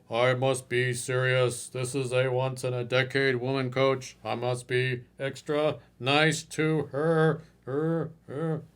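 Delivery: slow, solemn mock of the too-polite client; mock Mister Respectful. Coach imitating client who must be extra nice to her. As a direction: play the overly respectful client, slowly. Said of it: "Mister Respectful".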